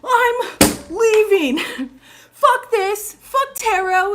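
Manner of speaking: high, loud whiny mock voice; mocking a rude commenter. Mocking a troll commenter who quits, in a high loud whiny voice. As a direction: squeal it out like a dramatic quitter. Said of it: "some bitch is like".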